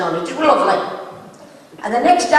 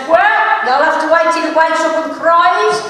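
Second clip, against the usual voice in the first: mock shout; 4 semitones higher, 3 dB louder than usual. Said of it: "And Sissy shouts".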